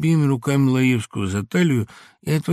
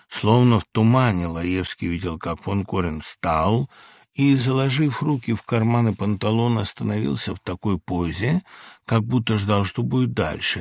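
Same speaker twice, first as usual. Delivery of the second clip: ordinary delivery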